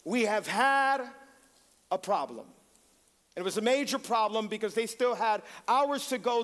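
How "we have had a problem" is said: radio call. Retold or imitated. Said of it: "they said".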